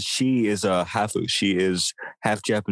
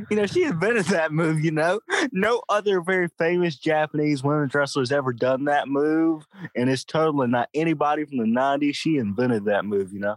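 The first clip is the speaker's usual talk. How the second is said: high-pitched mock-earnest insistence, breaking into laughter; dripping with sarcasm, barely holding back a laugh; sarcastic; 5 semitones higher than usual. Real, not acted. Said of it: "sense the sarcasm in your voice".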